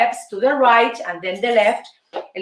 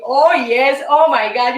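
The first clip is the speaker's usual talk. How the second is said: playful swoon; 4 dB louder than usual. Real, not acted. Teasing about men at gym.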